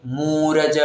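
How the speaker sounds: मूरज with a long ऊ; wrong long vowel. Shown as a demonstration. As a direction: drag out the first vowel of मूरज. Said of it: "ऐसा नहीं पढ़ना है".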